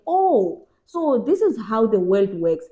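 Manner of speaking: mock realization. Realization about how the world works.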